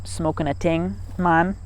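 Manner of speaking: a hint of Jamaican accent, "ting" said with a hard t for thing; lightly imitating a Jamaican stoner saying "ting" and "man". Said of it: "I'm not gonna do the voice again".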